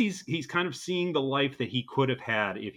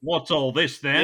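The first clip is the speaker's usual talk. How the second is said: mock Australian accent; 3 semitones higher, 5 dB louder than usual. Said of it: "our flawless Australian accents".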